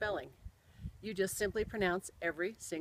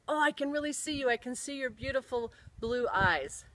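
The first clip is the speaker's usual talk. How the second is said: higher-pitched delighted exclamation; excited retelling; 5 semitones higher than usual. Retold or imitated. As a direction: voice her thrill at seeing someone dear. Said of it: "she was so excited".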